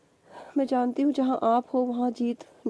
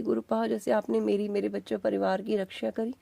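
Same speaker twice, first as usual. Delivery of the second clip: heartfelt prayer. Real, not acted. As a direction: pray gently for everyone's blessing. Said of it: "मैं सभी के लिए अरदास करती हूँ".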